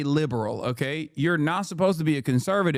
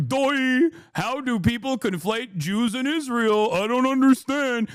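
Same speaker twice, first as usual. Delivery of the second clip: mock dumb voice; 4 semitones higher than usual. Mocking feigned confusion.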